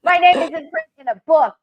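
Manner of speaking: high and loud with delight; thrilled. Real, not acted. Friend sees her name in the book, thrilled and loud. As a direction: announce it like big news.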